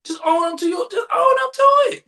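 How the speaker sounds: plead, then yell at them to own it; building to a frustrated yell at someone dodging blame; exasperated shout. Retold or imitated. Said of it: "I'm like".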